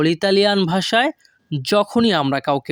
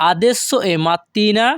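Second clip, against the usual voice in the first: slow model sentence; 2 semitones higher, much slower than usual. Shown as a demonstration.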